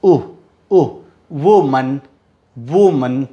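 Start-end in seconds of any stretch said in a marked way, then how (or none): 0.0-0.9 short उ sound repeated; vowel drill. Shown as a demonstration. Teacher shows students the उ sound in woman. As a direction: isolate the उ sound. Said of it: "तो उ".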